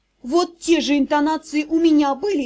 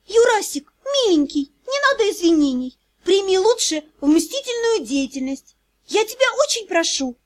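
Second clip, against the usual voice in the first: urgent whisper; 5 semitones higher than usual. Acted. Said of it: "быстро зашептала".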